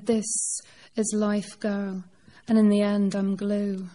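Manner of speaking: put-on measured spoken-word poem delivery, no accent; poetry reading. Poet reading her grandfather-as-unicorn poem to the crowd, measured. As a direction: give each line its own weight, like a poem on stage.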